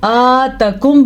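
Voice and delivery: आतकुम with the second a cut short; wrong reading. Shown as a demonstration. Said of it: "बाज़ लोग क्या करते हैं".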